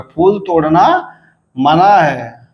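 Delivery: "फूल तोड़ना" rises, pause, "मना है" falls; prohibition tune. Shown as a demonstration. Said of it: "मना पे तीन हो गया".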